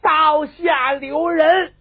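long, high, loud halting cry; stretched, piercing command; high shout. A narrator's reading. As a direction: cry out to stop the blade, drawing every word out. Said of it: "老太太高喊一声".

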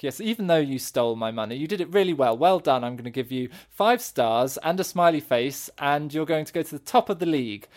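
lightly voiced, encouraging marker; teacher praising homework. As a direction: praise like a teacher grading work. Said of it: "you're essentially positively marking his homework".

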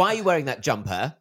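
imitated accusing question; nosy questioner. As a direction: challenge them like a prying stranger. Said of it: "walk up to somebody and go".

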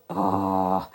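low, soft dismayed "oh"; a parent's quiet disapproval; disapproving oh. Retold or imitated. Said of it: "and we go".

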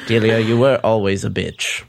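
Judi Dench. Acted. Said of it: "Dame Judi Dench".

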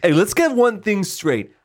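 tough guy voice. Pretend.

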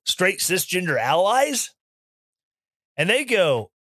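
ordinary talk, nothing marked

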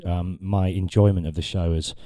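rough, croaky voice from a hoarse throat; words catching in a hoarse throat. Real, not acted. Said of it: "my throat is fucked".

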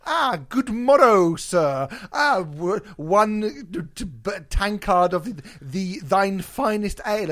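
lightly hammed olde English; mock medieval pub patron; hammy stage actor. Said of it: "going into a Wetherspoons and going".

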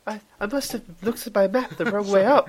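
gone high like a little schoolboy; squeaky high schoolboy voice; high pitch voice. Real, not acted. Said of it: "your voice is really funny".

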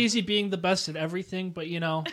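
milking the applause. Pretend. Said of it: "I'll hold your applause".

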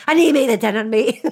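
playfully fed-up protest; mock impatience. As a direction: push it out as a half-joking plea. Acts out impatience with slow listeners.

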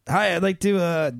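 lightly attempted Canadian accent, hesitant order; Danny DeVito, Canadian accent. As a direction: play a Canadian customer with a questioning "eh". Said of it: "with a Canadian accent".

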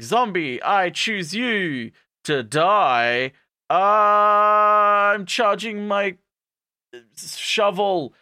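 slow, drawn-out heroic challenge; hammed-up charge at the enemy; mock battle cry. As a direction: stretch it out into a loud, high war cry. Acting hammy battle cry.

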